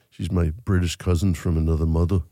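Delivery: lightly attempted Liverpudlian accent; bad Liverpudlian accent. Shown as a demonstration. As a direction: have a clumsy go at a Liverpudlian accent. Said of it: "This is my Liverpudlian accent".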